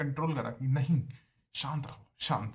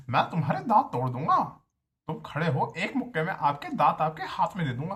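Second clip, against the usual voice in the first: put-on HOD's accent threat; 3 semitones higher, 4 dB louder than usual. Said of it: "और यही accent में भाई".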